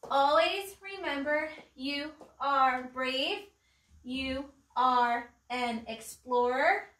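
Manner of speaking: slow, word-by-word recitation; class poem recital. Real, not acted. Teacher reciting the daily poem for children to echo, slow and measured. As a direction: recite it deliberately, lifting the end of each line. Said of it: "let's do our poem".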